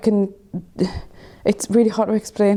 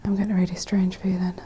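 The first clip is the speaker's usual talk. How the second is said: hushed, frightened whisper; 8 dB quieter than usual. Real, not acted. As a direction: whisper it, barely breathing. Scared in pitch-black ghost hunt.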